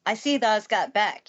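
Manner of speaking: put-on Yorkshire accent. Station master greeting the housekeeper, in a Yorkshire accent. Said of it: "I don't think I can do a Yorkshire accent".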